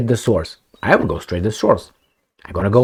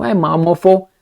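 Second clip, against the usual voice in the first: mock rough greeting; 7 semitones higher than usual. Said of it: "That's how they talk".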